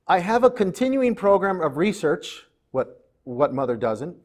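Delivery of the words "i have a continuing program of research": higher-pitched, composed official statement; imitating a poised professional answer; unflustered, self-assured. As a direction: state it smoothly as an imposing credential. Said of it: "without any trace of fluster in my voice".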